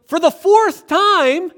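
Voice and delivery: very high, loud, slow yell; wife turning round to shout at her husband; exasperated shout. Retold or imitated. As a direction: spit it out, fed up. Exasperated wife snaps back.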